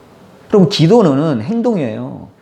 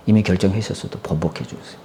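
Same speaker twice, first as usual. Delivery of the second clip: lower, softer begging; soft pleading; 8 semitones lower, 6 dB quieter than usual. Acted. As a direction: plead gently but insistently. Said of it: "통곡하면서 기도한 거예요". (낮고 부드럽게 간청)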